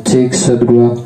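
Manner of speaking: mic check with echo; counting through an echoing mic. Shown as a demonstration. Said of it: "Kemudian kita coba echo-nya".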